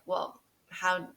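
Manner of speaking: doubtful. Retold or imitated. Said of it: "that's how she made me feel".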